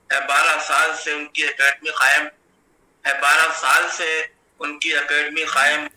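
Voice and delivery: measured mushaira recital with drawn-out line endings; Urdu poetry recitation. Acted. Poet reciting verse in praise of an Urdu academy, declaimed poetry recitation. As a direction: recite each half-line in a steady cadence.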